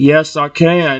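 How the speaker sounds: calm, steady, deep low voice. Voicing a character in a story who answers calmly, in a deeper calm voice. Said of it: "speaks with a bit of a deeper voice and a calm tone".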